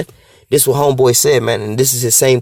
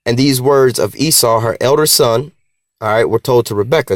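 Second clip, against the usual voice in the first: reading again. Shown as a demonstration. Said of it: "let me read that again".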